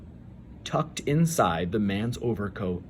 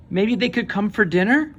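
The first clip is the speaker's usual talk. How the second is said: put-on higher, eager little-girl voice; hopeful child; 8 semitones higher than usual. A narrator's reading. Frances asks her mother to invite them, hopeful. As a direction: ask hopefully like a small girl.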